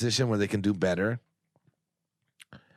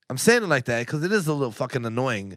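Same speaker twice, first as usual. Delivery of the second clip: real, mild exasperation; a little annoyed. Real, not acted. Friend explaining his frustration to the hosts, a little annoyed. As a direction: let some irritation show as you explain. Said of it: "You can tell I'm a little annoyed".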